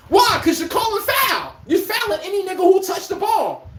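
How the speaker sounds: real high-pitched rant breaking into a laugh; fed-up shout. Real, not acted. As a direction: blow up at the fouling, laughing at the end. Ranting about intentional fouls.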